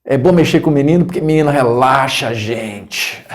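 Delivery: lightly strained imitation of an instructor; tense "relaxing" impression. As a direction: claim to be relaxed while sounding tense. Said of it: "ele falava com essa entonação".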